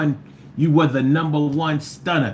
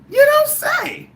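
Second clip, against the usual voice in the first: sarcastic surprise; 3 dB louder, slower than usual. Acted. Mock surprise at chat comment.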